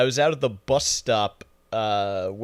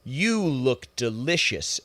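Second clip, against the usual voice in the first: creepy guy; much slower than usual. Retold or imitated. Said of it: "some guy says".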